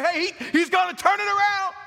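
high, loud crowd-rousing shout; hyped-up preacher. Acted. Preacher showing how he could work the room, hyped shout.

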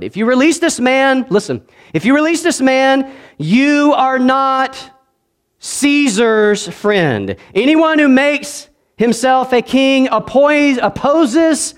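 high, loud, slow preacher's threat; the crowd pressing Pilate; crowd's threat. Acted. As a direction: stretch out each word.

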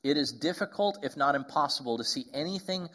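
measured reading of a meditation; reading aloud. Acted. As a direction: read the quote out with weight. Reads Nouwen meditation aloud.

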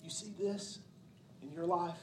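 soft, hushed and tender, almost whispered; softly reassuring voice of God; gentle God voice. Retold or imitated. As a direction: speak as God gently coaxing a struggling child. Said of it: "God coming to us and saying".

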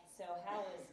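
slow, drawn-out mocking question. Husband mocks wife about her study group, mocking. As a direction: needle her about it, stretching the words. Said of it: "he would mock me".

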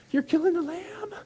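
put-on very high, squealed child's question; horrified kids. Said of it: "the kids are like".

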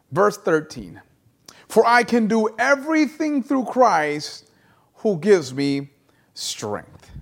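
deliberate Bible reading with long pauses; scripture reading. Acted. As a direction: read the verse out, phrase by phrase. Reads scripture aloud to congregation.

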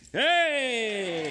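loud, high sharp "Hey!"; sharp shout. Real, not acted. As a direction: snap the dog to attention. Dog misbehaving.

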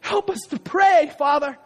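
impassioned preaching prayer, rising to shouts; fervent prayer. Real, not acted. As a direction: pray it out over the congregation with fire. Preacher praying at full force.

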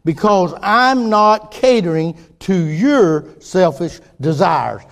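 a lightly voiced God, slow and deliberate; God calmly rebuking a sulking prophet, slow and measured; slow, firm God voice. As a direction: speak slowly as God correcting Jonah. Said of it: "But God said".

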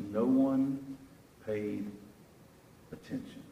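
words spaced out, last one whispered; slow fade to a whisper; dramatic pauses. Shown as a demonstration. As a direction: pause between words and breathe out attention. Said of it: "And listen to this".

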